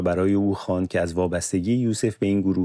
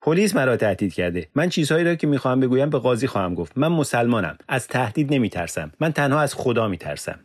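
defiant; 5 semitones higher than usual. Acted. Defiant reply about threats.

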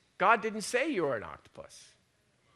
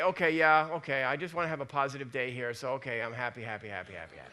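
mock forced cheer; 5 semitones lower, faster than usual. Preacher mocking forced positive self-talk, hammed-up fading cheer. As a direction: pretend to psych yourself up, losing steam. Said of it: "I'm not gonna say".

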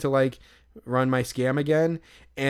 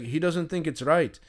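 imitated Irish attendant, pitched up; thick Irish accent; 4 semitones higher than usual. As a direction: mimic an Irishman reporting to a colleague. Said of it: "this thick Irish accent".

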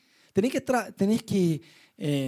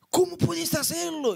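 higher, slow astonished question; mock amazement; 10 semitones higher, slower than usual. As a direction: marvel at the escape. Amazed friend's face. (asombro burlón, más agudo y lento)

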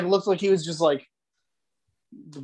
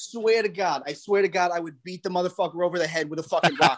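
light Italian-American wiseguy bluster; a hint of Italian-American tough talk; 3 dB louder than usual. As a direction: rant like a Philly Italian uncle. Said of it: "No change in tone".

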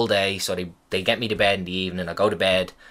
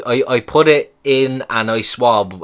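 1 imitating the nurse; 5 dB louder, slower than usual. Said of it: "the bad English really kind of".

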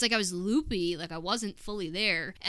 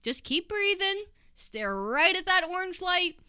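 imitating doctor; 10 semitones higher, 5 dB louder than usual. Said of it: "He was like".

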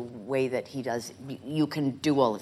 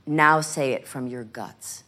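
urging from the gut; 2 semitones lower, 5 dB louder than usual. Retold or imitated. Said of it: "She said".

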